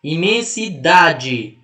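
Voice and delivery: "Imensidade" very slow, syllables spread out, strong DA; teacher dragging "Imensidade" to expose the stressed DA; stress on penultimate syllable. Shown as a demonstration. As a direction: sound out "Imensidade" piece by piece, hitting DA. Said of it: "É o da".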